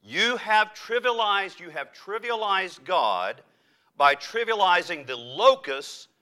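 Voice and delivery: emphatic, measured accusation voiced for Jesus; righteous indignation. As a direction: build a stern charge, leaning on the key words. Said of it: "Jesus is brought to righteous indignation".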